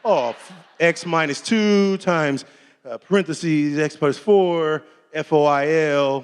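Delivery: slow, spelled-out working through a sum; slowly muttered math to yourself. Shown as a demonstration. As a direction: think it out slowly step by step. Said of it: "I multiply polynomials".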